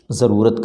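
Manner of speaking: ضرورت said with a plain z; z sound. Shown as a demonstration. Teacher showing students the Urdu ضرورت. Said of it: "ضرورت کہا جائے گا".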